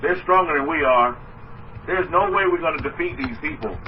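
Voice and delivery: defeated spies. Retold or imitated. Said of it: "The consensus of ten was".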